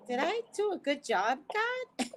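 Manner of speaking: anxious plea. Retold or imitated. Asking God after every video.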